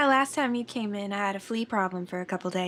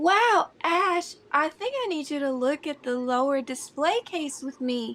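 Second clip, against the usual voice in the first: deliberately overloud, a bit too loud, pitched up; 6 semitones higher than usual. Voicing a character speaking so another overhears: a little too loud on purpose. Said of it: "a little bit too loud so that she knows Dante is hearing".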